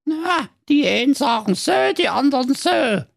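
high, grudging dwarf voice; muttering dwarf. Acted. Dwarf dismisses Marco's boast, dryly. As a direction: shrug it off dryly. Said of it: "murmelte der böse Zwerg Grützelbart".

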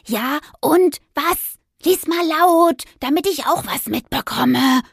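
high, slow, demanding meow; impatient cat voice. Acted. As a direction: whine like a pushy tomcat. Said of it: "maunzte Zenturo sie an". (ungeduldig maunzender Kater)

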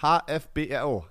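dictating. Shown as a demonstration. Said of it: "Alles groß geschrieben".

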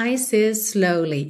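Ice is slowly run together with one S; linked words. Shown as a demonstration. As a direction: join ice into is with no break. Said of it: "você faz um S só". ("ice is slowly" tudo ligado)

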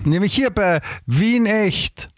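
slow, drawn-out show intro; slow announcer intro. Shown as a demonstration. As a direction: announce the podcast name slowly. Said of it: "Warte, warte, ich sag's mal".

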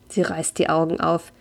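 calm storyteller reading a memoir aloud; story narration. A narrator's reading. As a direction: read it like an audiobook chapter.

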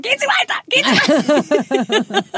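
high, then slow and drawn out; shooing away. Retold or imitated. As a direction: wave him off, stretching it. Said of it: "hab so gesagt".

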